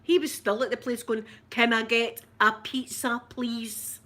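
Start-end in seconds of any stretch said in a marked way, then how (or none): 1.5-4.0 imitating son's attempted American accent; mock American accent for a pizza order. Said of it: "You're gonna need to try an American accent".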